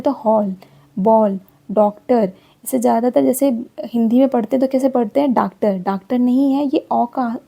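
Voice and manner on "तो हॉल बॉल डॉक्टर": हॉल and बॉल with a rounded open o as in English; teacher modelling the English o; open o sound. Shown as a demonstration. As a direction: slowly round the vowel in बॉल, डॉक्टर. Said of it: "इसमें ऑ का sound है".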